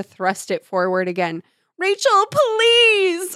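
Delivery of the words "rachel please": slow, high shrieking plea. A narrator's reading. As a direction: shriek it out in terror. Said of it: "Melissa shrieked".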